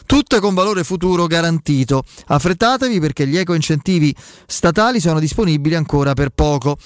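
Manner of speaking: upbeat radio ad read; infomercial. Acted. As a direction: pitch the sponsor like a radio host. Host reads live sponsor ads.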